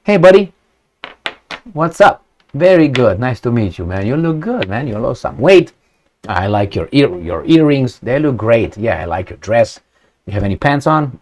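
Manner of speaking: put-on butter him up like an old pal, half joking; mock friendly schmoozing. Imitating how he'd greet the leader, in mock friendly small talk. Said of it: "I would talk to this, uh, someone else the same way".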